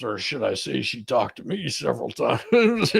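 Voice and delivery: chuckling through the words; laughing. Real, not acted. Attorney joking to the questioner about his chatty client, laughing. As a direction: laugh as you correct yourself.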